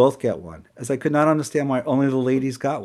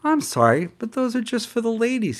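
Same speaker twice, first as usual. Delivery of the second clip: voiced waiter; 11 semitones higher than usual.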